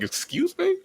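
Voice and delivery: high-pitched incredulous "excuse me"; mock indignant. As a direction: shoot up high in mock offence. Acting out his indignant reaction.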